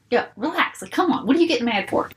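dismissive yo relax. Shown as a demonstration. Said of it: "it's how you say it".

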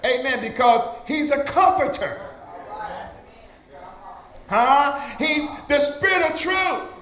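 punchy church exhortation; fervent preaching. Real, not acted. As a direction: preach it out to the congregation. Preaches at raised pitch and force.

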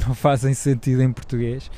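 ordinary talk, nothing marked

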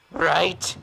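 normal talking voice

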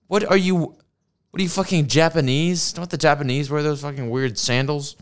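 mock-baffled voice ridiculing the sandals; mocking incredulous. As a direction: sneer it like a baffled snob. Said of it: "I'm like".

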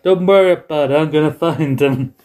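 a light take on Pat Patterson; Pat Patterson impression. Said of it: "Bruce Pritchard's impression of Pat Patterson".

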